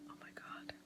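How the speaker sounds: barely audible gasp of amazement; awed whisper. Real, not acted. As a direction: whisper it, stunned by the taste. Awed first sip of tea.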